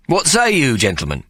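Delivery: high bright call to the captains; Ikey, showman call. Acted. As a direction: lift it like a barker asking.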